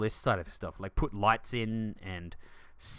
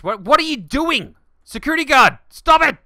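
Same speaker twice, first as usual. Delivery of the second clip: high, loud shout to stop; yelling at guard; 13 semitones higher, 15 dB louder than usual. Real, not acted. Player shouting at the security guard to stop, loud. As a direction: call out sharply to make him stop.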